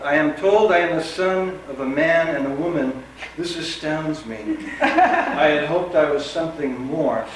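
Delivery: measured, deliberate epigraph read; literary quote reading. Acted. Reading an epigraph to the audience, measured recital. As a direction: read it out as a solemn quotation.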